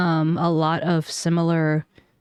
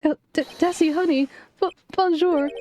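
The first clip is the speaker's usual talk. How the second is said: lightly voiced doting wife, pitched up; sweet wife voice; 9 semitones higher than usual. Desiree and Ron greeting each other in sugary higher voices. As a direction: coo a greeting to her husband.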